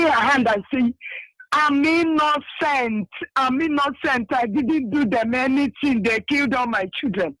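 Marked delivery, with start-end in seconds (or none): 1.5-7.4 crying plea. Retold or imitated. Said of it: "keep on crying".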